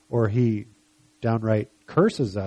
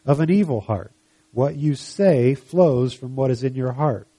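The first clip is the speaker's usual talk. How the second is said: scripture reading. Acted. Jesus teaching about good and bad trees, measured reading. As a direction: read the teaching out deliberately, leaning on the contrasts.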